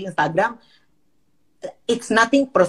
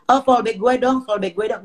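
a light whiny ask for a follow; mimicking Gaby; 5 semitones higher than usual. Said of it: "si Gaby masuk".

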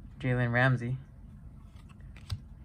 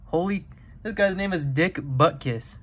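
laughing; 3 semitones higher than usual. Real, not acted. Laughing at funny card name.

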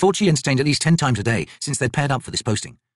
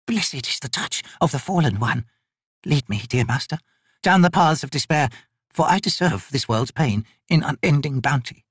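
lightly voiced old man praying, slow; fervent prayer; 5 semitones higher, slower than usual. Broken old man praying to his god, devoted. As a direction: murmur devotion to the dark master.

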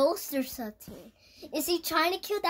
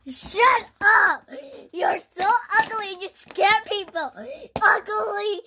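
mock angry yell; 5 semitones higher, 5 dB louder than usual. Hurling insults at the ghost.

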